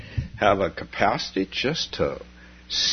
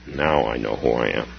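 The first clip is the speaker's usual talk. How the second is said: quiet wonder; 9 semitones lower than usual. Acted.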